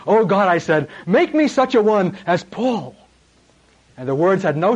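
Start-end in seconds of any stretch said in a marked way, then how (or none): 0.1-2.9 higher, earnest pleading cry to God; fervent prayer cry. Retold or imitated. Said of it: "I cried out to the Lord".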